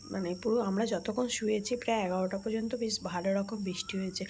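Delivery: soft unvoiced whisper. Real, not acted. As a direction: whisper so as not to wake anyone. Early morning, family asleep.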